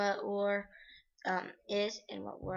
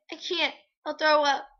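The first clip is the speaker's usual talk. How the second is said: distressed cry; 7 semitones higher, 12 dB louder than usual. Acted. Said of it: "I said as I turned".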